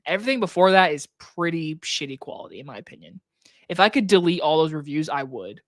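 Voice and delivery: normal talking voice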